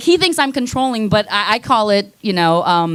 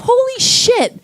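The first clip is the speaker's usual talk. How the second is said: mock amazed kid; 13 semitones higher, slower than usual. Kid's reaction voiced.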